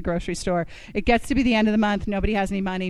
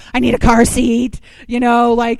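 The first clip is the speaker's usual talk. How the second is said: mock-urgent call for help, louder; urgent appeal; 6 dB louder than usual. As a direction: put out a loud, hurried plea.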